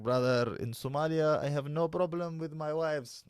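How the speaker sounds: mock Somali man's accent; put-on foreign accent. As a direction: imitate a Somali brother with an invented accent. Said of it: "that's not his accent".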